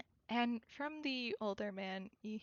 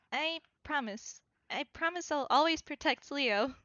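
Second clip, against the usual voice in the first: lightly voiced happy child, a little higher; happy chirp; 4 semitones higher than usual. Little Arsène promises to protect Leo, chirping happily. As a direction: promise it with a mild, eager chirp. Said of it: "happily chirps".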